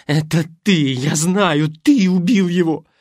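high, loud accusing scream; furious yell. Acted. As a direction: hurl the accusation at him. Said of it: "завопила она".

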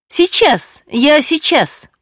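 plain reading voice

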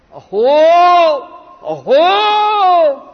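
loud, high cry of wonder; overwhelmed devotee crying out; ecstatic exclamation. Acted. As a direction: burst out with awe from the heart. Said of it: "That verse he uttered".

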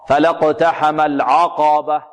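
slow "فلا اقتحم العقبة" with a thickened ayn in "العقبة"; over-heavy ayn. Shown as a demonstration. Teacher shows a recitation error, heavy ayn in "العقبة". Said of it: "ونحذر كذلك من تفخيم العين".

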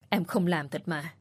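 pleading denial. Acted. Wife repeats denial softly.

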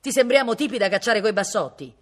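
cantankerous retort at full voice; grumpy shouting. A narrator's reading. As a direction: yell back in a foul mood. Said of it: "che doveva aver le sue lune".

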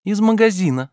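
put-on high, lively young woman voice; Ольга, звонкая девушка. A narrator's reading. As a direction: play Olga pleading playfully. Olga's voice. (звонкий голос юной Ольги)

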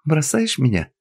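high tragic question; hammed-up tragic plea. A narrator's reading. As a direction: ask it as a tragedy. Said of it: "трагически осведомилась она".

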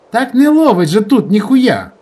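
irritated villager shouting at bad signal; exasperated outburst. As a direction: snap it out, finally losing patience. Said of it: "Нарешті рознервувався й Толік".

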